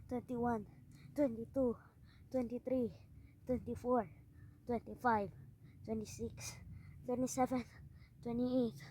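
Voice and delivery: effortful counting. Real, not acted. Counting own forty push-ups.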